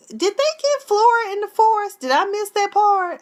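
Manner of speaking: high, loud disbelief; confused. Real, not acted. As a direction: ask it in real bafflement. Confused about missed plot.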